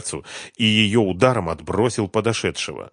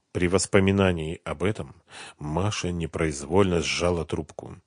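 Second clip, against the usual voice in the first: ordinary delivery, nothing marked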